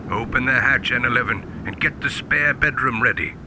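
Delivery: loud, eager commands; excited orders. Acted. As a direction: bark out the orders with glee. Captain gives urgent orders.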